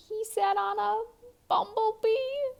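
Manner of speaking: mock shock. A narrator's reading. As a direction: build it up as a big surprise for the kids. Dramatic turn in the story.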